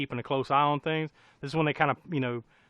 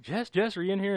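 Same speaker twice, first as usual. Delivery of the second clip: searching call; 6 semitones higher than usual. Acted. Acting boyfriend calling out for Jess.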